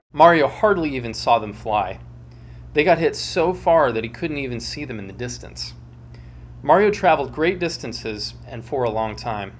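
storyteller reading with dramatic flair; dramatic story reading. A narrator's reading.

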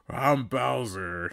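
slow, monster-like boom; Bowser voice. Acted. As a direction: loom over them. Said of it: "I'm gonna do the voice".

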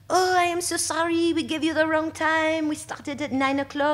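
high, apologetic audition staffer. Retold or imitated. A staffer apologizing to the late dancer, in a high, apologetic voice. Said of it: "She's like".

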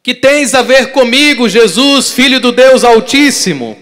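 high, very loud desperate cry to Jesus; demon-possessed man shrieking at Jesus from afar; possessed man screaming. Acted. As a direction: scream it like a man tormented by a spirit. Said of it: "gritou bem alto".

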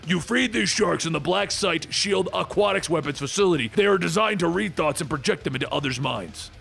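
lightly voiced sea-creature lecture; a hint of monster voice; Manphibian scolding. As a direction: explain reproachfully in character.

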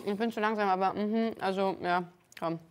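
talking with a mouth full of food. Real, not acted. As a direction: speak around a big bite. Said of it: "Ich rede das mit vollem Mund".

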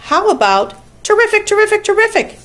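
very high, honking repeats; excited goose. A narrator's reading. Goose suggests a slogan to Charlotte, high excited squawk. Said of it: "asked the goose".

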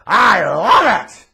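booming, drawn-out roar of approval; Vince McMahon. Retold or imitated. Boss hearing the Tony Montana voice, huge delighted bellow. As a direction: bellow it slowly like an over-excited boss. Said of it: "And you know Vince McMahon, he's like".

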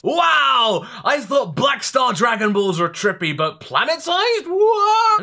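loud, high, laughing disbelief; amazed shouting. Real, not acted. Reacting to planet-sized Dragon Balls.

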